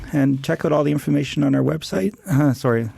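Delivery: a bit hoarse, voice going. Real, not acted. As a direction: talk through a worn-out, hoarse voice. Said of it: "losing my voice".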